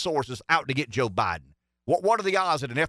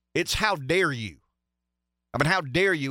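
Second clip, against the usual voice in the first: ordinary talk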